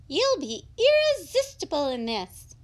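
high, quick shop assistant; a polite high-voiced shopkeeper. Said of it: "said the shop assistant".

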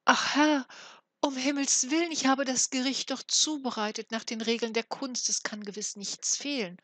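high, trembling plea of a scared dwarf; a dwarf pleading in fear with his master; frightened plea. A narrator's reading. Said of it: "So sprach der Zwerg und zitterte".

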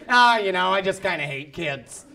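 low, offhand, dropping away; casual confession. Acted. Someone in a social setting, mock casual. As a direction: toss it off lightly. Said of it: "in a social setting when someone's like".

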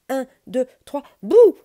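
scary boo. Acted. Bear plays his scaring game.

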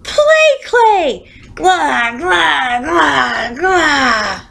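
very high, loud yuck and gagging; disgusted yell. A narrator's reading. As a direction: shriek it out like you bit into clay. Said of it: "she yelled".

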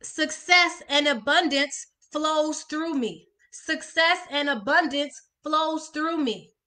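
slow, deliberate reading of each word; slow affirmation. Shown as a demonstration. Coach reading an affirmation to viewers, slow and deliberate. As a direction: let every word land slowly. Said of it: "the next one is".

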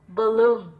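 balloon, opening on a neutral "buh"; schwa in balloon. Shown as a demonstration. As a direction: say balloon with "uh" in the first syllable. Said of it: "âm ơ". (đọc balloon với âm ơ ở đầu)

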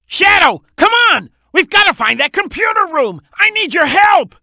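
high-pitched, pressing plea; urgent call for help. Acted. Calling Shadow for help.

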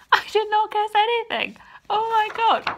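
very high, loud exclamation; stunned outburst. Real, not acted. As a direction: blurt it out in real amazement. Stunned by a plot reveal.

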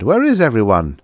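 shouting. A narrator's reading. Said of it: "he shouted".

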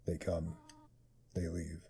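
demonic voice. Acted. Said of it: "I'm giving her a demonic voice".

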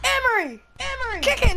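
calling out. Real, not acted. Calling teammate.

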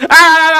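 loud high panicked yelps; startled yelps. Real, not acted. Gamer startled by sudden attack, loud yelps. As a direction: cry out in sudden alarm.

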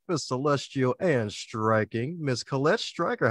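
drawn-out announcer introduction; hyped host announcing the guest; grand intro. Acted. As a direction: present her like a star.

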